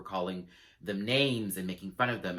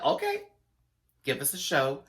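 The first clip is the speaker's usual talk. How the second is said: sassy challenge; 3 semitones higher than usual. Retold or imitated. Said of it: "I said".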